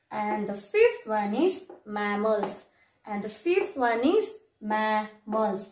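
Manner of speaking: slow, syllable-split teacher's dictation of each class name; careful pronunciation demo. Shown as a demonstration. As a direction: say each class name slowly and distinctly, with pauses. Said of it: "okay, how it is pronounced".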